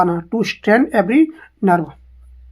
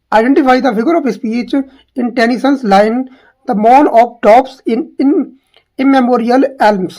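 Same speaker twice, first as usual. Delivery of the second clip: slow question read-out; much slower than usual. Shown as a demonstration. Reading question and quoted line.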